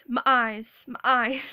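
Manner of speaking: punchy southern-accented vowels; southern twang. Shown as a demonstration. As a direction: say "my eyes" with a southern drawn vowel. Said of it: "I do have a southern twang".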